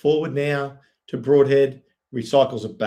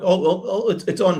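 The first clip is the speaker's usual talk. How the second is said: excited outburst; 7 semitones higher than usual. Real, not acted. Foul happening live on pitch.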